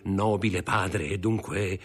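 high, stammering flattery with pitch leaps; flatter, hesitate, then pry eagerly; fawning old crony. Acted. Old friend prying into the father's wealth, fawning. Plays Caderousse.

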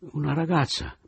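Oliva alza la voce, acuta e disperata; esclamazione disperata. Acted. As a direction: grida la scoperta, con voce più alta. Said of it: "esclamò poi levando le braccia". (Oliva, disperata, esclama la scoperta al narratore)

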